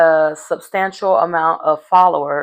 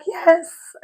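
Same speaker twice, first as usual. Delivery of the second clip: high, bright-eyed yes; mock-giddy acceptance of a proposal; 11 semitones higher than usual. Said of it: "of course she was like".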